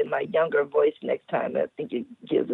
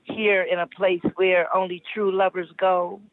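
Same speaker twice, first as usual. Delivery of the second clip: put-on old lady voice. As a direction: read it like a sensual old lady. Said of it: "I'm using my old lady voice".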